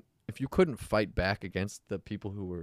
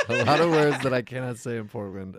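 amused emphasis; 4 semitones higher, 6 dB louder than usual. Real, not acted. Amused repeat after being talked over.

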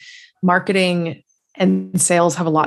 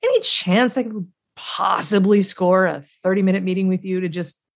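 charming cold-call pitch; 2 semitones higher than usual. Acted. Cold caller asking a prospect for a meeting, playfully charming. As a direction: playfully sell it, easing into a tentative ask. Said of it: "And then I'd be like".

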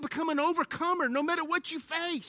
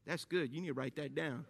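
laughing aside; 11 semitones lower, 11 dB quieter than usual. Real, not acted. Laughing at own line.

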